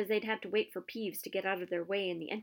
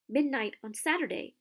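a hint of hoarse alarm, higher and louder; lightly hoarse, startled repeat; 5 semitones higher, 4 dB louder than usual. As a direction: croak it out in sudden panic. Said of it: "he said in a hoarse voice".

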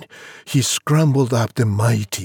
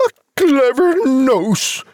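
high-pitched mother's incredulous hiss; hissed scorn; 11 semitones higher, 3 dB louder than usual. Acted. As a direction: echo it mockingly as a scornful mum. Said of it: "his mother hissed".

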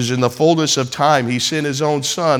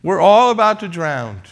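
higher, louder cry of alarm; panicked disciples; 3 semitones higher, 4 dB louder than usual. Retold or imitated. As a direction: cry out like men about to drown. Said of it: "They said".

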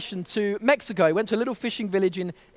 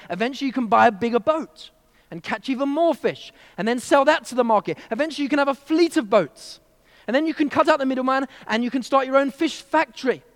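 eager businessman; 5 semitones higher, 4 dB louder than usual. Acted. Harvard MBA pitching his plan.

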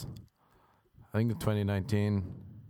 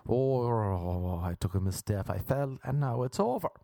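Irish dirty talk; 3 semitones higher than usual. Acted. Irish dude after a misstep in bed, mock regret. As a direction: stretch the ohs, then admit the mishap. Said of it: "That's Irish dirty talk".

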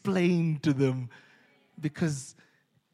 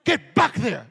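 loud high yell of hey; crowd yelling; 10 semitones higher, 10 dB louder than usual. Retold or imitated. Crowd yelling at the one who stepped off, loud. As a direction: shout them back onto the floor. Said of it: "they're like".

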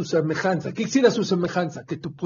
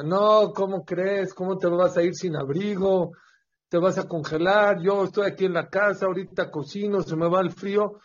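higher-pitched wifely protest; 3 semitones higher than usual. Acted. Wife objects to husband leaving without a coat, protesting. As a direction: argue back, voice raised in pitch. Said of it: "Empezaron a discutir".

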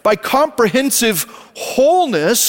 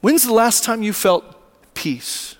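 reflective question. Acted. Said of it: "I want you to ask yourselves".

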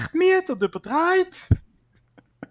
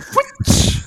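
squeaky whoosh; 4 dB louder than usual. Pretend. Clothes fly off, sound word.

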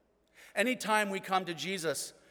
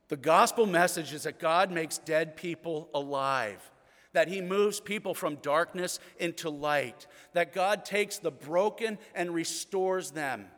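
preaching proclamation; 4 dB louder than usual. Real, not acted.

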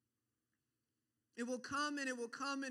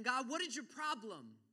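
mildly raised, acted anger at God; angry; 4 dB louder than usual. Preacher acts a believer angry at God, angry challenge. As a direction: snap it as a frustrated challenge. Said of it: "being angry and saying".

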